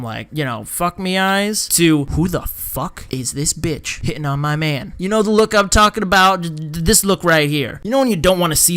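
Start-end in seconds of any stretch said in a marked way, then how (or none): 2.0-4.9 low-key, menacing mock jealousy; jealous glare voiced. Wendell eyeing a rival hitting on his man, mock jealous. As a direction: voice a jealous man's silent glare. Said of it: "Wendell over in the corner goes from".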